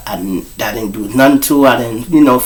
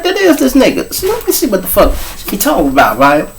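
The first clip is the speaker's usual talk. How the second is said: raised-pitch mock woman's voice, quick and amazed; imitating his lady friend; 11 semitones higher than usual. Recognising him in a video, a raised-pitch mock woman's voice. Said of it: "She like".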